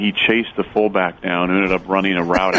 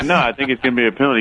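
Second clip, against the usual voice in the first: laughing protest; 4 semitones higher, much faster than usual. Retold or imitated. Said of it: "I was like".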